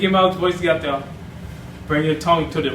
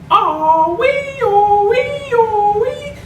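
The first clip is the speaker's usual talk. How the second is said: very high squeaky cartoon mouse sing-song; Mickey Mouse voice; 4 dB louder, much slower than usual. Shown as a demonstration. Tutor demonstrating the Mickey voice to viewers. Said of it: "Start saying".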